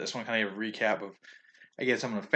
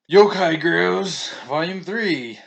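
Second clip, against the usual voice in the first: excited; 7 semitones higher, 10 dB louder, much slower than usual. Real, not acted. Announcing the next manga title.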